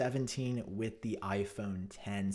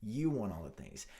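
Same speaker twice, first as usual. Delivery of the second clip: annoyed repetition. Real, not acted. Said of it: "That is a phrase that triggers me".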